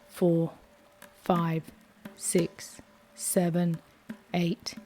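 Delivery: steady, calm counting of breaths; guided breathing count. Acted. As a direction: lead the breath count evenly.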